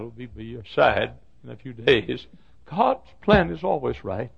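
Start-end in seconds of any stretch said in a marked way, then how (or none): 2.7-4.3 raised pitch, ordinary volume; preached assurance. Real, not acted. Preacher comforting a grieving mom and dad, firm measured assurance. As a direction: affirm it firmly without shouting. First take of preached refrain.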